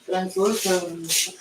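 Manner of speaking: translucent said slowly and clearly as trans-lu-cent; slow deliberate translucent, accent dropped; careful plain retake. Shown as a demonstration. Correcting himself while cooking, slow careful translucent. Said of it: "I don't know where the accent came from".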